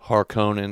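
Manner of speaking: Harkonnen with a full long O; harsher pronunciation. Shown as a demonstration. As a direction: say Harkonnen as har-KOH-nen. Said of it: "It sounds harsher".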